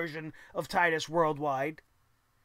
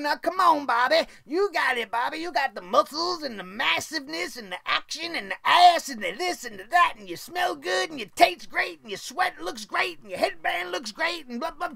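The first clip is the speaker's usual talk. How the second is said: mocking Lio Rush cheerleading; 6 semitones higher than usual. Vlogger imitates Lio Rush cheering Bobby from outside, high and gushing. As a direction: gush over Bobby like a hammed-up sidekick. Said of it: "Talking like this and going".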